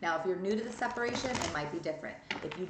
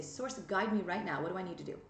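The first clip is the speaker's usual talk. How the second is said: calm prayer to Source. Shown as a demonstration. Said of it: "and then you say".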